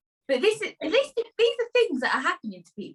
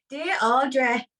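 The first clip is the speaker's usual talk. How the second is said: put-on accent from up north; northern English accent; 2 semitones higher than usual. Host reads a listener's dilemma to Audrey, playful northern accent. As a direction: read it as a letter writer from up north. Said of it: "they're from up north".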